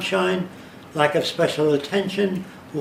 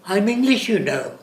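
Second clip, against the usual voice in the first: put-on English accent; 4 semitones higher than usual. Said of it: "with a certain sing-song".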